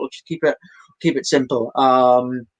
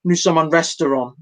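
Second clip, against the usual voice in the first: French reply; 3 semitones higher than usual. Retold or imitated. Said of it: "I started with a".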